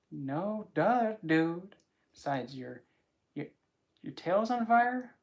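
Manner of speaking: lightly voiced mocking woman; teasing woman. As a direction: needle him playfully. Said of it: "She's like".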